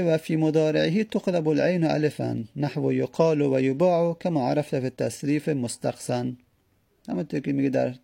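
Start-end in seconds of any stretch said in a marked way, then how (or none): 0.0-6.3 reading the Arabic text. Shown as a demonstration. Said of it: "بعد میگه".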